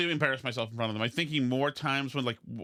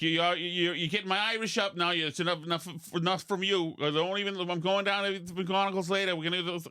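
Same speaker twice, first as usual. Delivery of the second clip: put-on Boston Irish accent; 3 semitones higher than usual. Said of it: "do a Boston Irish accent".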